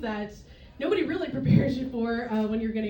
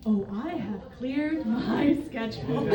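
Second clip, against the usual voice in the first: sarcastic; slower than usual. Retold or imitated. Sarcastic reply to mom.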